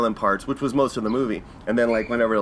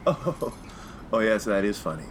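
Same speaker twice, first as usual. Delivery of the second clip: mock British chuckle; 3 semitones lower, 6 dB quieter than usual. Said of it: "the laughs are very British too".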